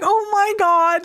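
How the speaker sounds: high, slow stunned disbelief; drawn-out gasp of disbelief; stunned oh my God. Retold or imitated. Reviewer reliving a shocking death, slow stunned disbelief. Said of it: "I'm just sitting there like".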